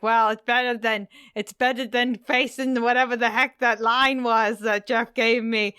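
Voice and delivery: half-hearted Canadian farmer grumbling; put-on Canadian farmer. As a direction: farmer Kenny in a loose Canadian accent. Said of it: "I don't think your accent was Canadian".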